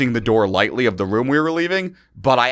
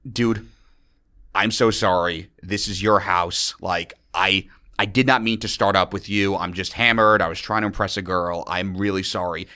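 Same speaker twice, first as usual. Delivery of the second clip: low, softened retold plea; earnest apology; 5 semitones lower, 4 dB quieter than usual. Drunk student apologising outside to the host, low earnest voice. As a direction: back down gently and sincerely. Acted apology before the fight.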